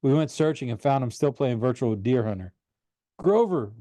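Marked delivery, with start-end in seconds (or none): 3.2-3.7 shout. A narrator's reading. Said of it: "we both shouted".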